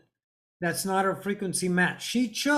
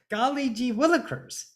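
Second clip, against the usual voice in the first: cartoon mouse exclamation; 4 semitones higher than usual. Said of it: "Like Sniffles".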